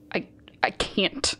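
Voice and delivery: voiceless, faltering; broken whisper. Acted. Mitch admitting he can't, whispered. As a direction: let it barely come out. Breaking down quietly.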